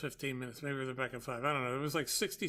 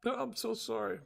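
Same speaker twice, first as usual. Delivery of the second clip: lightly voiced apologetic delivery woman, pitched up; apologizing; 7 semitones higher than usual. Delivery woman to angry customer at the door, apologizing. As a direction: imitate her apology in a higher voice. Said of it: "she's apologizing".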